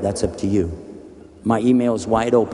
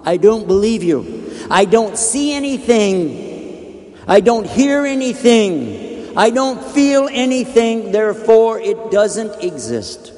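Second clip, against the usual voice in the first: stubborn squatter; 10 semitones higher, 4 dB louder, slower than usual. Acted. Stubborn squatter refuses to move.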